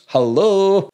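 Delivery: high, loud, incredulous "Hello?"; mock the commenter with disbelief; sarcastic hello. Replying to a spoiler complaint, sarcastic disbelief.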